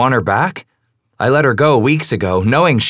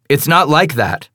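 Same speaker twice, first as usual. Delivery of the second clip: snapping; 7 semitones higher than usual. A narrator's reading. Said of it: "I snap".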